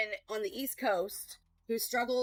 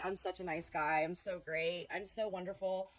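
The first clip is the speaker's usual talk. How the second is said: softer, sneering imitation of a smug man; mock his self-praise to his face; mocking smug self-talk; 3 semitones lower, 5 dB quieter than usual. Mocking a man who thinks he's a sweetheart, softer and sneering. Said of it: "think in the mirror every day".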